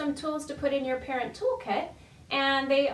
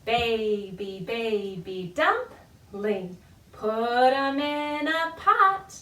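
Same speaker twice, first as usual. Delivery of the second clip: spoken nursery rhyme; 4 dB louder, much slower than usual. Shown as a demonstration. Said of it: "it goes like this".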